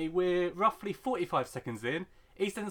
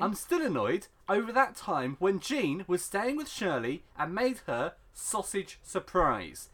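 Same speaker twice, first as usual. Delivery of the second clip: emphatic read-out, slowing on the key phrase; dramatic post reading; 3 dB louder, slower than usual. Acted. Host reads an annoyed Reddit post to co-host, emphatic read-out. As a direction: read it like a weighty complaint.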